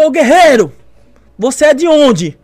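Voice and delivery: loud, high, slowing challenge; mock drill-instructor call; imitated instructor's shout. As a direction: bellow like an instructor singling someone out. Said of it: "falando, gritando".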